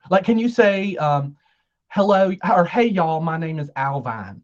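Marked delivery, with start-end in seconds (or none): 1.9-4.4 Southern accent. Shown as a demonstration. Host shows guest the line to copy, light Southern accent. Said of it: "Can you do a Southern accent".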